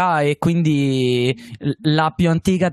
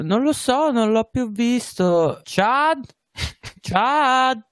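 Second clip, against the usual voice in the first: calling out; 9 semitones higher, much slower than usual. Acted. Calling out for missing Chad.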